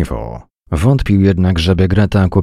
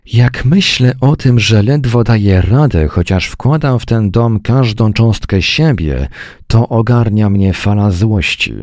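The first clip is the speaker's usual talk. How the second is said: higher, louder exasperated wife; angry complaint; 5 semitones higher, 3 dB louder than usual. Acted. Wife venting to her husband, high and loud with anger. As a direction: let the frustration burst out.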